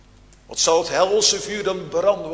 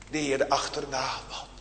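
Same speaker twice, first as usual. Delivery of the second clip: softer and quick "de Heere achterna wandelen"; softer first take; 2 semitones lower, 6 dB quieter, faster than usual. Real, not acted. Preacher repeats promise twice.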